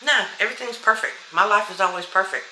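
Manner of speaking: quick, bright brush-off of a negative thought; a coach showing how to answer a negative thought. Shown as a demonstration. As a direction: wave the doubt away fast. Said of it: "That's all you do to change a blockage".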